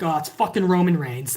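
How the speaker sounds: low, grumbled resignation; deflated mock groan; unimpressed fans. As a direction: imitate fans sighing at the same old star. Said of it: "then there's the rest of us".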